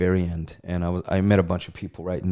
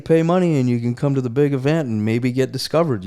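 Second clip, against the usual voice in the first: mock radio ad; 6 semitones higher, 5 dB louder than usual. Mocking a radio ad pitch.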